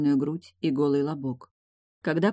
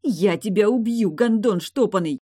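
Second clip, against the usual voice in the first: louder, higher raging shout; furious threat; 5 semitones higher, 5 dB louder than usual. A narrator's reading. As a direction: scream the threat at him.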